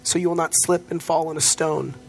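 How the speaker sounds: measured scripture read; reading scripture to the congregation, measured. Acted. Reads the Psalm aloud.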